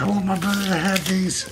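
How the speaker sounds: high, proud dog voice; voicing the dog. Owner voicing Happy giving his brother a gift in a high voice. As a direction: speak for Happy in a high pretend voice. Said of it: "He's like".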